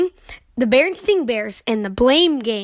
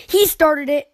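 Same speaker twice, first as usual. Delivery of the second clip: cub's whiny accusation; 4 semitones higher than usual. Acted. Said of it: "Cries of".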